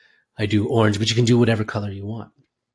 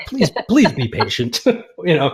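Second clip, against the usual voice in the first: laughing plea; 6 semitones higher, 5 dB louder, slower than usual. Real, not acted. Laughing apology for first try.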